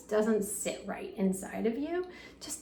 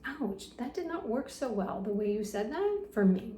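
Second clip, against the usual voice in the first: gentle boundary. Shown as a demonstration. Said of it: "So you can also say that".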